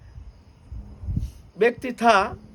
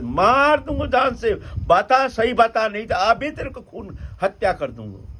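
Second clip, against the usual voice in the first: high, loud menacing interrogation; angry threat; 7 semitones higher, 4 dB louder than usual. Acted. Devotee threatens the woman at knifepoint, high angry shouting. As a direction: demand the truth with a raised, forceful voice.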